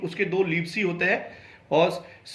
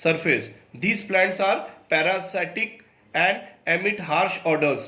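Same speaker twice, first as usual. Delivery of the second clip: slow, careful textbook reading; reading aloud; much slower than usual. Acted. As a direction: read each English word out slowly for the class. Reads English textbook passage aloud. (धीमी, सावधान पाठ-वाचन)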